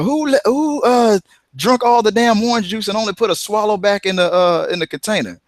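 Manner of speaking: put-on high, indignant old-lady voice; old lady complaining. Old lady scolding Red Fox over orange juice, high and indignant. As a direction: squawk it like a cranky old woman. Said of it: "he said".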